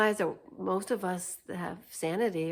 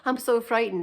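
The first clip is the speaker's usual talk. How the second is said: hammed-up scared voice, louder on "frightened"; mock fear; 5 dB louder than usual. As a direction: pretend to be frightened, sarcastically. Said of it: "and not like".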